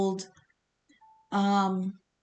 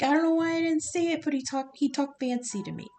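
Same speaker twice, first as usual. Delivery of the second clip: higher and fast, flustered excuse; shook-up grasshopper; 6 semitones higher, faster than usual. Retold or imitated. Grasshopper underling excuses himself to the boss, flustered. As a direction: babble it out like a caught underling. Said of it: "the grasshopper under him was like".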